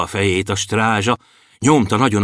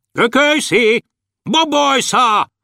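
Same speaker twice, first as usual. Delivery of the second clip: guard shouting; 14 semitones higher than usual. A narrator's reading. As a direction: call out for them across a distance. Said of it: "Kiabált a strázsa". (magas hangon kiabáló strázsa)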